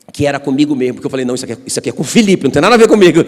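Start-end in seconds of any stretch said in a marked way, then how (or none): 1.3-3.2 rushed brush-off, louder at the end; dismissive. Retold or imitated. Pastor brushing off God's word, fast and dismissive. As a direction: wave it away as not for you.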